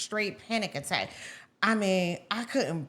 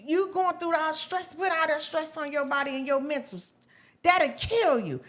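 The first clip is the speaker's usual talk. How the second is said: imitating mom, pitched up; mom's voice; 7 semitones higher than usual. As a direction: retell a mother's warning, high and emphatic. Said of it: "She said".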